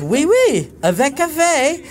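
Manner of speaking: mock waitress voice. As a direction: chirp it back like the waitress. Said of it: "And she goes".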